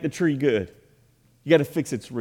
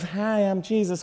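passive Jesus; 5 semitones higher, 3 dB quieter than usual. Pretend. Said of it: "Jesus as being this passive".

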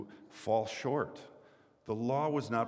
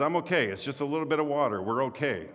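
higher, louder, brushing it off lightly; cheerful reassurance; 5 semitones higher, 3 dB louder than usual. Retold or imitated. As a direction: reassure the angry boatman it's nothing. Pastor voices John reassuring boatman.

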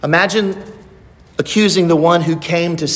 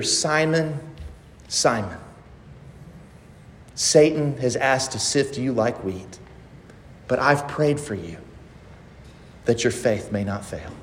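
tender endearment; 4 semitones lower, 7 dB quieter than usual. Acted. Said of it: "this is a term of endearment".

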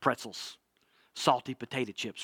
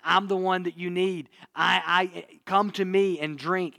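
mild mock shout; 4 semitones higher than usual. Jesus calling to the crowd, mildly raised voice. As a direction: call it out like reaching a busy crowd. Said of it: "Jesus is shouting out".

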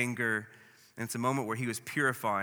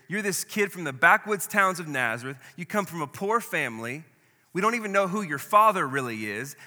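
louder, higher scornful attack; religious leaders scorning Jesus, loud contempt; contemptuous challenge; 4 semitones higher, 4 dB louder than usual. Acted. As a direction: sneer down at the upstart from Nazareth. Leaders sneering at Jesus, voiced.

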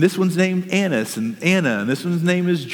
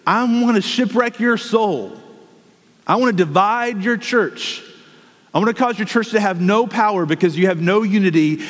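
enemy's invitation; 5 semitones higher than usual. Retold or imitated. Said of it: "doesn't pull us in by advertising".

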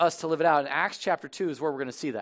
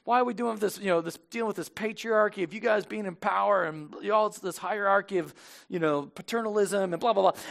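Korah; 4 semitones higher than usual. Retold or imitated. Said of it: "There's Korah. He's like".

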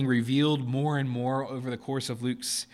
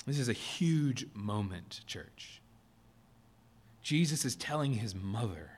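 solemn hush; 2 semitones lower, 5 dB quieter than usual. Real, not acted. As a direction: draw the church close quietly. Solemn hushed address to church.

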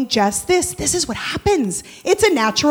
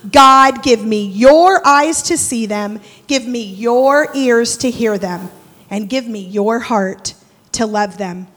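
earnest prayer; 3 semitones lower, 3 dB louder than usual. Acted. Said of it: "The only thing that I can say".

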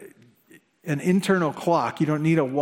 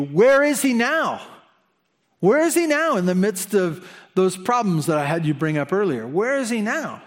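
voicing the enemy, pitched up and sneering; mocking taunt; 3 semitones higher than usual. Enemy mocking a believer about God's absence, jeering.

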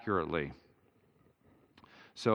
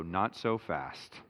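Lee Corso line; 2 semitones lower, slower than usual. Retold or imitated. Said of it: "In the words of Lee Corso".

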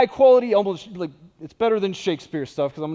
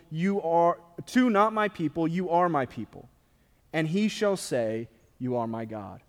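measured, solemn reading of scripture. Acted. Preacher reading Hosea to the congregation, solemn reading. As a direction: read the passage with weight, line by line.

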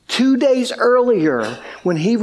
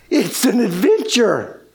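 dawning wonder. Retold or imitated. Realization after a gasp.

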